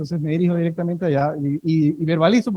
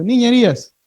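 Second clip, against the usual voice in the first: louder prompt; 3 semitones higher than usual. Shown as a demonstration. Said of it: "No escucho".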